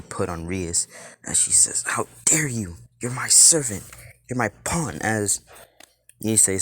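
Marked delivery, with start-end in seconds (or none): 1.9-5.0 higher, indignant protest; mildly indignant outrage. Acted. Rias telling Issei he is her servant, mildly indignant. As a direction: put a defiant servant in their place, voice raised in pitch.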